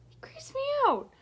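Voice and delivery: unvoiced high whispered aside. Girl whispers to friends that he creeps her out. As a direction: breathe it out, creeped out.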